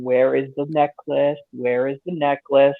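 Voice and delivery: calm, low, quiet villain menace; softly menacing mustache twirling villain. Retold or imitated. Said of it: "very calm".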